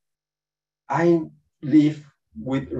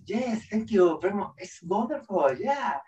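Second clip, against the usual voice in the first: high, soft on-air sweetness; fake cheerful presenter; 5 semitones higher, 5 dB quieter than usual. TV presenter greeting people at work, falsely cheerful. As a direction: gush quickly in a put-on happy voice.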